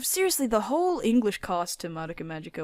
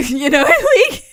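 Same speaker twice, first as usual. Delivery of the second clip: laughing through the words; 8 semitones higher, 11 dB louder than usual. Real, not acted. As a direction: laugh while talking. Laughing at own fantasy.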